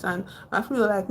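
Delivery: ordinary delivery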